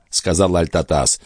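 ordinary delivery, nothing marked

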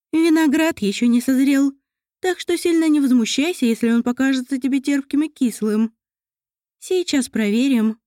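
gentle motherly elf voice; kindly elf mother. Acted. Mother explains the grapes.

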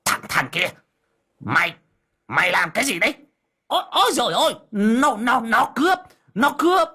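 high panicked cry for help; high-pitched alarmed shouting. Acted. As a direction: yell out that he's being robbed. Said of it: "miệng hô hoán".

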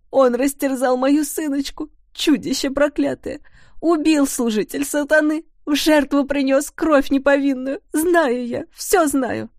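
high, loud grief-stricken accusation. A narrator's reading. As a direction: rise into a frantic wailing outcry. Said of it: "Голос Бьянки зазвучал громче".

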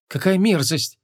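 high-pitched distaste; disgusted. A narrator's reading. Young woman reacting to the mating story, disgusted. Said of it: "брезгливо поморщилась Вон".

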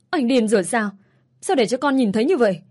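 a lightly acted yell at the ex. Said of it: "Có gì mà cô phải gào lên như thế".

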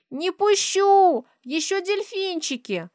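put-on high, loud, slow little girl's plea; high insistent child's voice; clinging child. A narrator's reading. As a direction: hold on and beg like a small child.

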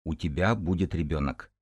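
ordinary delivery

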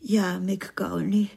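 slow, breathy whisper of agreement. Acted. Wife whispers slowly to her husband. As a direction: breathe his name slowly, barely voiced.

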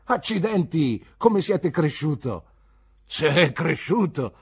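hearty fisherman. Acted. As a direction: marvel at the grown boy. Fishermen voices in story. (pescatore cordiale, stupito e lento)

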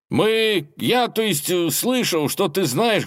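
Ivan's voice. A narrator's reading. Ivan peeking out at the dragon, high and timid. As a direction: play the nervous young lad.

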